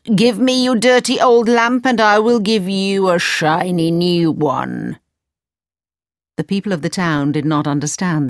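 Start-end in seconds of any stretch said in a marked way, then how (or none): 0.0-5.0 hawker's sing-song offer; mild vendor's call; street vendor call. A narrator's reading. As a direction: tempt the townsfolk. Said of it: "he called out".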